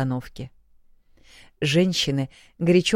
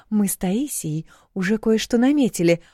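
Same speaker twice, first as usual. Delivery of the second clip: conspiratorial whisper; hushed, secretive whisper; 6 semitones higher than usual. A narrator's reading. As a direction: let her in on the secret. Sharing a secret wedding plan.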